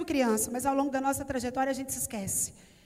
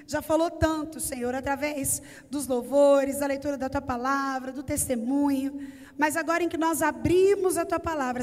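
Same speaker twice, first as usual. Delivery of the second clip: prayer; 2 semitones lower than usual. Acted. Pastor praying over the congregation, earnest prayer. Opening prayer before sermon.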